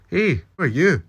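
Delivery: high, loud surprised call; startled call. A narrator's reading. Jamie calling to the stranger opposite, startled and loud. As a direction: shout across the cells in surprise.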